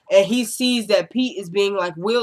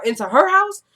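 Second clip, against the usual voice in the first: high-pitched imitated disbelief; mock incredulous; 9 semitones higher, 4 dB louder than usual. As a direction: voice leaps up as if appalled. Acting Marcy's shocked refusal.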